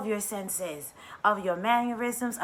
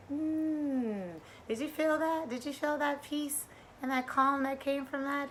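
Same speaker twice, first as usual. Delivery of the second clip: higher, softer, hushed wonder; 6 semitones higher, 8 dB quieter than usual. Retold or imitated. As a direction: ask it gently, amazed. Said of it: "I'd be like".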